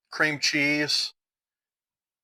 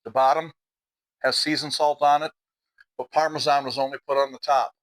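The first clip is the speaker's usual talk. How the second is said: talking while chewing; words round a mouthful of food; mouth full. Real, not acted. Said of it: "talking with my mouth full".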